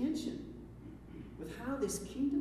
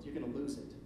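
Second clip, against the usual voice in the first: softer, hushed quoting of Jesus; quoted softly; 5 semitones lower, 6 dB quieter, faster than usual. Shown as a demonstration. Preacher quoting Jesus to the congregation, hushed. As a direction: let the warning drop low and gentle. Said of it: "he goes on to say".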